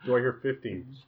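playful auction-caller bid; auctioneer. Pretend. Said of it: "We're doing the auctioneer thing again?".

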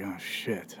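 soft, low oh-no under the breath; muttered realization. Retold or imitated. Retelling his guilty realization to dad, soft mutter. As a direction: quietly realize the mistake. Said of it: "I was like".

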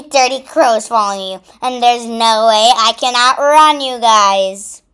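loud insistent yell. Acted. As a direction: shout it out, standing firm. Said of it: "Roxy yelled".

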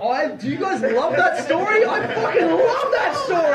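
high, laughing, gleeful; delighted laughing. Real, not acted. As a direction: crack up as you relish it. Comic delighted by story.

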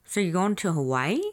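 lightly imitated call from another room; a mild mock yell down the hall. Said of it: "kind of yelling from the other room".

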